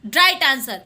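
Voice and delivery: very slow, spelled-out English answer; slow answer announcement. Shown as a demonstration. Teacher announcing the quiz answer to students, very slowly. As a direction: drag it out word by word like announcing a result.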